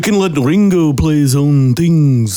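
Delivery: hammed-up Liverpool accent, laughing along; Scouse Liverpool accent as a Beatle. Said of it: "You do a good Liverpool accent".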